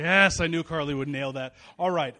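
a real laugh of delight at the reply. Real, not acted. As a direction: pastor praising the congregation's reply, laughing. Laughs after the congregation replies.

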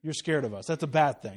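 lightly voiced dismissive objector; dismissive society. Society brushing off Christians' warnings, mildly dismissive. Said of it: "rest of society looks at you and goes".

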